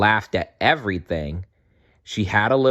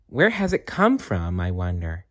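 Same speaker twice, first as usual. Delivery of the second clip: wondering elf. Acted.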